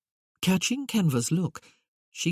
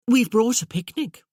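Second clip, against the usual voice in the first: bright lady voice; 7 semitones higher, 6 dB louder than usual. Acted. Cecilia speaks, voiced high.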